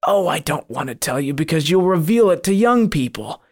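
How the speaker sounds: a gloating demon boasting of its snares; sinister monster. Acted. Monster refuses.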